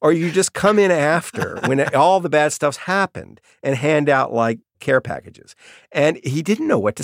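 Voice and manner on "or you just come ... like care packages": blunt challenge. Retold or imitated. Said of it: "he says".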